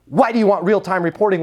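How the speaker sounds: the question "Why do you want real-time reporting?" pushed hard and accusing; aggressive tonality. Shown as a demonstration. Rep mimicking his own pushy tone to a client. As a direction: demand it like an accusation. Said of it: "with that tonality".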